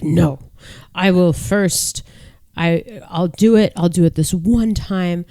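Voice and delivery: lightly acted, slow, emphatic decree; powerful salon woman. Imitating the salon owner banishing a client, mildly commanding. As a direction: lay down the law, imitating a formidable salon owner. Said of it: "very powerful woman of the salon".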